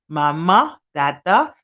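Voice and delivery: Mama, dada said clearly; baby words. Shown as a demonstration. Nanny modelling first words for babies. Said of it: "There you go".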